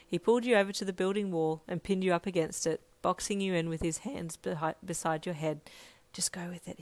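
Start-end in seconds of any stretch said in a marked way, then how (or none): 6.1-6.8 soft, breathy whisper. A narrator's reading. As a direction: whisper urgently close by. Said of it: "he whispered".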